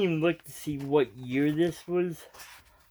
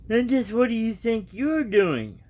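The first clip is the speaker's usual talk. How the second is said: indignant demand; 8 semitones higher, 4 dB louder than usual. A narrator's reading. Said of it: "asked Red Riding Hood".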